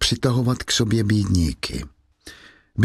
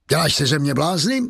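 scornful exclamation; 4 semitones higher than usual. Acted. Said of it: "zvolal Javert".

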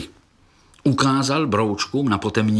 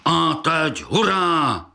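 battle cry; 7 semitones higher, slower than usual. A narrator's reading. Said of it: "vykřikl velký brouk".

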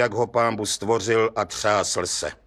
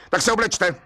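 higher, sharp irritated order; snapped; 9 semitones higher than usual. A narrator's reading. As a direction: snap it out in exasperation. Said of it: "utrhl se soudce na cihláře".

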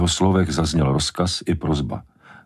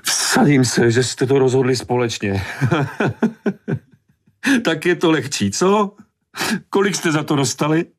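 high, shrill mocking fury with a bitter laugh; furious outburst; 13 semitones higher than usual. A narrator's reading. Mother raging at the men, mocking their deal. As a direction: explode at them in rage. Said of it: "výbuchem zuřivosti".

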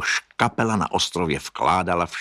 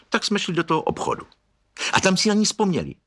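blurted out fast and much higher; 12 semitones higher, faster than usual. A narrator's reading. Minka interrupts the story, blurting it out fast and high. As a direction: spill it out in a rush. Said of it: "vyhrkla Minka".

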